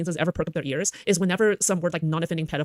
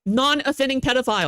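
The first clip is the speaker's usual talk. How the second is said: mocking repeat; 6 semitones higher than usual.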